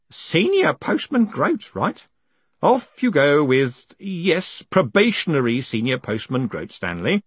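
gentle, slow, kindly. Acted. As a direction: speak as kindly as you can. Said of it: "as kindly as he could manage".

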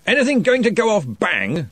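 jovial lordly wizard; booming Arch-Chancellor. A narrator's reading.

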